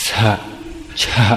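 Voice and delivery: "สะ" and "ชะ" as separate, isolated syllables; Indian pronunciation. Shown as a demonstration. Teacher showing how Indians separate the sounds, syllable by syllable. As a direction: keep "สะ" distinct from "ชะ". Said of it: "คนอินเดียจะออก จะแยกเป็น".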